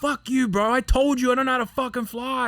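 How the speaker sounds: high-pitched retold tirade; angry outburst. Trainee to officer after rough landing, angry. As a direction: re-enact swearing at a superior, indignant.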